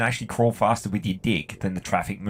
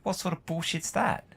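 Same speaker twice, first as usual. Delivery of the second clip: higher, scornful what-the-hell question; incredulous disgust; 9 semitones higher, 4 dB quieter than usual. Real, not acted. Telling listeners about a tourist's unfair jail time, incredulous. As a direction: scoff at how unfair it was. Outraged at the arrest.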